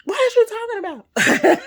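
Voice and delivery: high, loud mock yell; pitched-way-up, loud self-imitation; loud comeback. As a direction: fire it back at a comic holler. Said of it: "And I'm going".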